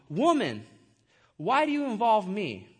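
blunt address to his mother; harsh, rude. Acted. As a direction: read it as a curt-sounding rebuke, a little forceful. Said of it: "it does sound kinda harsh".

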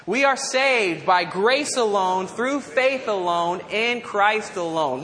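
slow, measured recitation with firm emphasis; deliberate recitation. Real, not acted. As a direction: lead a group repeat, word by word. Leads congregation in repeating it.

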